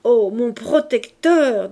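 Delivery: slow, loud, weepy gush; hammed-up sobbing flattery; mock tearful. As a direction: overplay tearful gratitude. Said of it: "je fonds en larmes".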